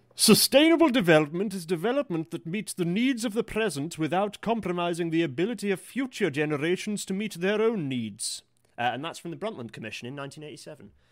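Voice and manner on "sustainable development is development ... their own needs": put-on posh reading voice, higher pitched. Reading out the Brundtland Commission's definition, in a posher voice. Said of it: "I'm just going to do it in my posher voice".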